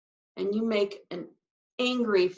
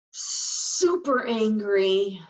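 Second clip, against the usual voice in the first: super angry; 3 dB louder, much slower than usual. Shown as a demonstration.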